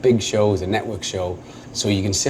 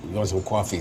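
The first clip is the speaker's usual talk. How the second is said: soft New York "coffee" with an AW vowel; Long Island accent; 2 semitones lower, 5 dB quieter than usual. Shown as a demonstration. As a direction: play the Long Islander asking for "cawfee". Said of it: "that's a Long Island".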